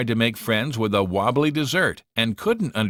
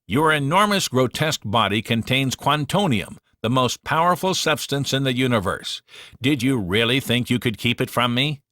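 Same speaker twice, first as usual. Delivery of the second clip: menacing alien villain; 3 semitones higher than usual. Acted. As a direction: lord it over the captive like a space conqueror. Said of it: "Galaxar confronted Susan".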